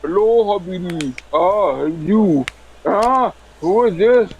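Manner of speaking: mock Arab accent on the phone. Prank caller switched up to an Arab, mock Arab accent. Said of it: "to an Arab".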